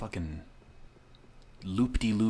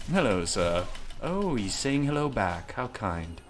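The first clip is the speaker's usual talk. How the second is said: British fop voice. Acted. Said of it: "doing the fucking British fop voice".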